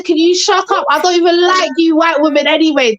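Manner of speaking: mock indignant telling-off; retold anger. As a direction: quote his outburst, indignant but not shouted. Retelling angry man's reply.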